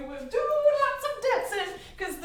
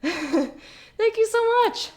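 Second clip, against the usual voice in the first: laughing; 7 semitones higher, 4 dB louder, much slower than usual. Real, not acted. Laughing, breathless thank-you.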